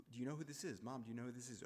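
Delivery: mildly insistent repeated question; retold badgering, lightly pressed; imitating a pestering. Sister testing whether mom knows the visitor, pestering. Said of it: "pestering, Mom".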